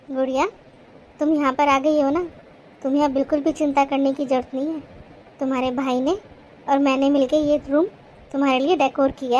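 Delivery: calm, tender, unhurried comforting; gentle reassurance. Acted. Sister-in-law welcoming the girl to her room, reassuringly.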